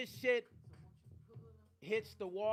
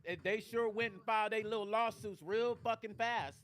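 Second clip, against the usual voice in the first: louder, heated call-out; angry; 2 semitones higher, 3 dB louder than usual. Real, not acted. Host calling out Rap Head over lawsuits, louder angry. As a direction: fire it at Rap Head, really pissed. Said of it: "That shit pissed me off".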